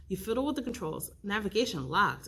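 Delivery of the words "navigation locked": flat automated system voice; robot voice. Acted. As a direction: speak like a machine. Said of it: "an automated voice".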